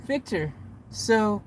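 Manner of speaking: halting attempt at nonchalance; straight-faced cool. Asking Victor about his bus, trying to stay straight-faced. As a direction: keep it composed, pausing between phrases. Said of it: "say it with a straight face and be cool".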